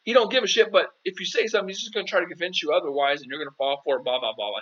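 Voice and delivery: emphatic retold advice. Coach replays telling a client not to text her ex, high and insistent. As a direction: press the point hard, almost pleading. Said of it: "I was like".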